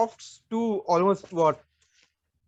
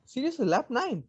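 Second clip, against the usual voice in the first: higher, swooping disbelief; incredulous question; 5 semitones higher, 4 dB quieter than usual. Real, not acted. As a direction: question it in real surprise, pitch leaping. Listener doubts the early pit lap.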